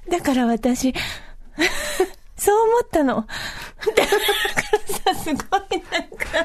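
exaggerated gasps between short high phrases; sexy breathing. Shown as a demonstration. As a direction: suck in air before each little phrase, hammed up. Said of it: "セクシーな息遣いでしょ".

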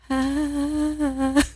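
long, high, soft exhale; breathing exercise. Real, not acted. Explaining odd noise to co-host, a breathing exercise. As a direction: let out a long controlled breath. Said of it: "Just a breathing exercise".

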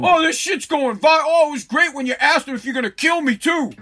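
lightly hammed-up dad loving the viral clip; mild mock-delighted father; proud clueless dad. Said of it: "kid's dad is like".

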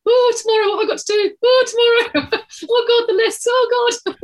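high fretful worrying, half laughing; worried. Retold or imitated. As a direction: fret about tomorrow's list. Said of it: "I spend my whole time awake going".

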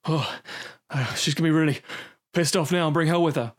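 lightly imitating someone winded; mock puffing between phrases; out of breath. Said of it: "He's out of breath".

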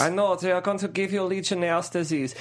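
understated, one-note doctor; calm doctor. Acted. Doctor answering a panicked cry, unruffled. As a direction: stay calm under pressure, lightly acted. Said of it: "he's always very calm under pressure".

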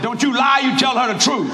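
a touch of stern divine command; the Lord's command. Retold or imitated. The Lord warns the preacher, mild stern command. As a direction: warn him off lying. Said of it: "And the Lord said".

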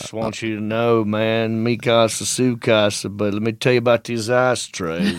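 lightly put-on Texas accent; Matthew McConaughey. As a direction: imitate a laid-back Texan cowboy. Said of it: "like Matthew McConaughey".

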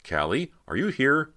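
high, loud questioning call; sudden call. A narrator's reading. Cody suddenly calls for her sister, urgent high call. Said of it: "Cody called suddenly".

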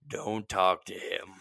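imitating wary whisperers. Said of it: "everybody's like".

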